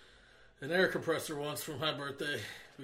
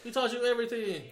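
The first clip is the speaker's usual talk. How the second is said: put-on Asian accent; 6 semitones higher, 7 dB louder than usual. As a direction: lay on a mock Asian accent. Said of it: "Why are you saying it all Asian?".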